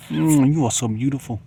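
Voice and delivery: the sun showers her with loud kisses and purrs; the sun kissing her. Pretend. Sun croons over the woman by the pool, loud and kissy. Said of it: "The sun is like".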